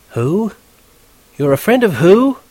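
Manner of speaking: high-pitched riled tigress; incredulous, irritated woman's demand; near yelling. A narrator's reading. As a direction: challenge the caller, voice shooting up. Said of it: "She was damn near yelling at me".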